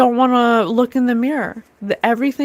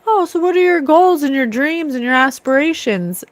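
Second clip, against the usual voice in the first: slightly higher put-on interested voice; mock fancy suitor; 4 semitones higher than usual. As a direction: imitate a schmoozing dinner host lightly. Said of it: "and they say".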